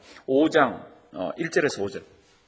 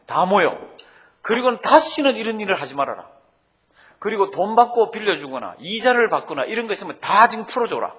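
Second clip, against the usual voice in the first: a touch of a furious governor barking orders, a bit louder; mock angry commands; 3 semitones higher, 3 dB louder than usual. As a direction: summon the nobles with retold anger. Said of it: "화를 버럭버럭 내면서".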